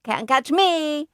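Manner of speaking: put-on high, singsong toddler taunt; hollering. A narrator's reading. Fudge running off from babysitters, hollered taunt. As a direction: holler it high, stretching the words. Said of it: "he hollered".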